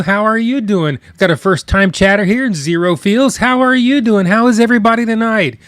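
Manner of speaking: bright upbeat shout-outs; cheerful greetings. Real, not acted. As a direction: greet each chatter warmly. Greeting chatters by name.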